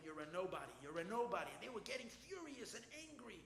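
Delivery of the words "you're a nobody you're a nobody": retold defiant telling. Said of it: "looking at every single one of them and telling him".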